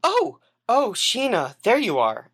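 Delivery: high startled gasp of recognition; startled oh, then bright. Acted. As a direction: caught off guard, then covering. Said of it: "is kind of startled and is like".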